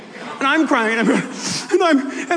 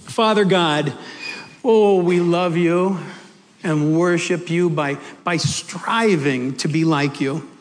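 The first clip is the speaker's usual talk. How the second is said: prayer; 3 semitones lower than usual. Real, not acted. Preacher leading the congregation to Father God, reverent prayer. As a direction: pray with long pauses, settling lower.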